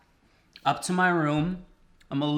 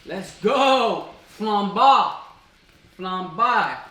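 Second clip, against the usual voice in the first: loud, raised celebratory shout; excited cheer; 5 semitones higher, 6 dB louder, much slower than usual. Real, not acted. Cook cheering the flambé to viewers, excited shout. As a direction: whoop it out as the flames go up.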